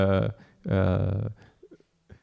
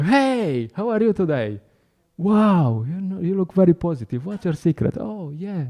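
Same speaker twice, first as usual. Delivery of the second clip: higher, bright eager hello; enthusiastic greeting; 6 semitones higher than usual. Retold or imitated. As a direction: greet a stranger with real excitement. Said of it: "I was just trying to be enthusiastic".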